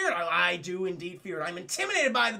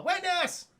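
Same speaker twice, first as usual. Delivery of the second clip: hype shout; 10 semitones higher than usual. Real, not acted. Echoing raid callout.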